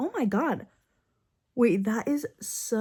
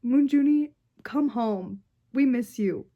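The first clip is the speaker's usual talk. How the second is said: louder pleading call; 5 dB louder than usual. Real, not acted. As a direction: call to him to come home. Calls out to absent idol.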